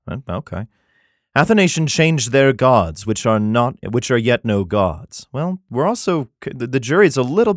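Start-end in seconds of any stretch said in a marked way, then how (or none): 1.3-5.3 measured, solemn Bible reading; scripture reading. Acted. Comedian reads Jeremiah to his audience, solemn scripture reading. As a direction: read it like King James scripture.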